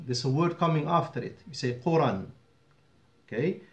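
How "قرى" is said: قرى said as "quran", final n sounded; two-fatha nunation on قرى; nunated ending. Shown as a demonstration. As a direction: end قرى on -an. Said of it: "because you're continuing".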